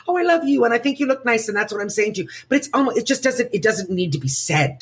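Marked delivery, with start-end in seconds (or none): 0.1-2.3 sweet friend. Retold or imitated. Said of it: "they're like".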